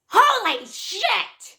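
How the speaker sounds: slow-motion cry of dismay; shocked exclamation. Retold or imitated. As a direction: stretch each word out in acted shock. Acted exclamation at slipping and wetting himself.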